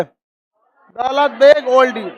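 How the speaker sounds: slow, stretched-out airport name; drawn-out class drill. Real, not acted. Teacher prompts class to name the airport, drawn-out drill. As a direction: draw out each word for pupils.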